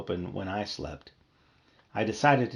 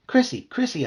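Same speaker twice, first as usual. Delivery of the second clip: high buzzing call; 14 semitones higher, 5 dB louder than usual. Acted. Bee calling his sister, high and buzzy. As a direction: call her like a tiny bee. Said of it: "I buzzed".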